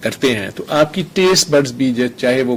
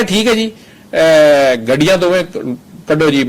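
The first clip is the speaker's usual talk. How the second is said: retold police shout; 3 semitones higher, 5 dB louder, slower than usual. Policeman orders cars moved aside.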